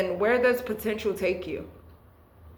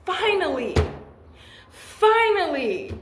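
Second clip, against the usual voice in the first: emotional; 8 semitones higher than usual. Real, not acted. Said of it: "I'm feeling really emotional".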